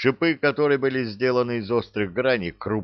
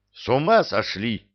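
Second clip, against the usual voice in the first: furious; 3 semitones higher than usual. Acted. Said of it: "разъярился юноша".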